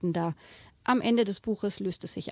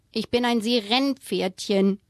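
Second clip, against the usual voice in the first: huffy; 4 dB louder than usual. Acted. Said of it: "wieherte das rote Pferdchen eingeschnappt".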